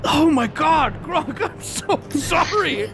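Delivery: high, tearful apology; mock remorse. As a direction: plead in hammed-up regret. Apologising to transformed friend.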